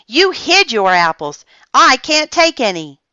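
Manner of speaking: put-on high, loud, indignant child; yell. A narrator's reading. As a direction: whine it out, wronged. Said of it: "yelled Janet".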